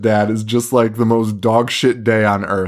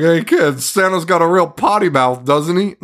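mock children's entertainer; 5 semitones higher than usual. Adults excusing a swearing Santa to orphans, mock cheery. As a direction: play it up for the kids, higher-pitched.

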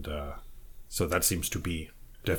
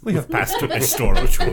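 laughing through the words; 7 semitones higher, 12 dB louder than usual. Real, not acted. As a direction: chuckle out the line, amused. Teasing about shopping, laughing.

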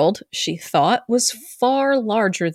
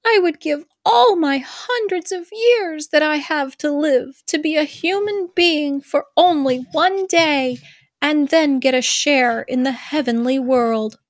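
put-on pleading young mermaid, pitched higher; 7 semitones higher than usual. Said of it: "you do the mermaid".

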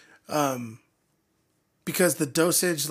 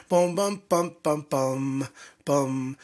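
sung riff; much slower than usual. Shown as a demonstration. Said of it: "like a riff like that".

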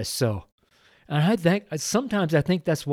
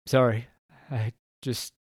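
choked up; 3 semitones lower than usual. Real, not acted. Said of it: "got so emotional".

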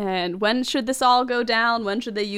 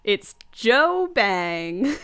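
dramatic reveal; much slower than usual. Retold or imitated. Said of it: "But he's like".

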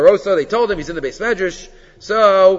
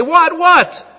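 put-on answering the kids; 11 semitones higher, 6 dB louder than usual. Rav Moshe answering the kids.

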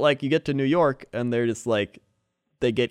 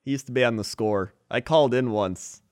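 Mike North impression; 3 semitones higher than usual. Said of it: "He's just like".

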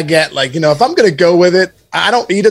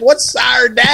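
mock baffled self; 7 semitones higher, slower than usual. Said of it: "I'm like".

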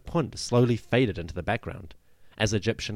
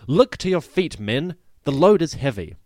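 loud, high shouted warning to workers; shouted order; 6 semitones higher, 8 dB louder than usual. Retold or imitated. Overseer shouting at workmen loading ships, loud warning shout. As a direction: yell it across the dock to careless men. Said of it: "one of the Egyptian overseers shouts at his workmen".

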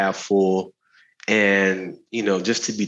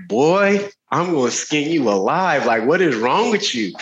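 a higher mock-angry auntie threat; imitating a stern auntie; 5 semitones higher than usual. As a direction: play the auntie hissing a threat at church. Auntie scolding at funeral.

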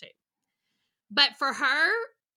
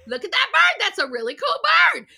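much higher, louder bright wonder; hammed-up thrilled adult; mock excitement; 10 semitones higher, 12 dB louder than usual. Shown as a demonstration. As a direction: sell the bird to distract a toddler.

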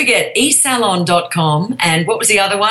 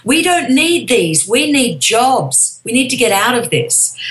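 mildly cross, slowed and emphatic; understated indignant pushback; quoted cross complaint; 4 semitones higher than usual. Retold or imitated. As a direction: retell an indignant protest with weight on each phrase. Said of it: "people were quite cross and said".

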